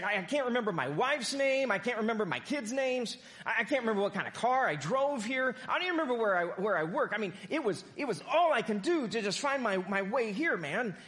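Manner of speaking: a man near tears who can't remember anything; panicked patient. Acted. Agitated patient almost in tears.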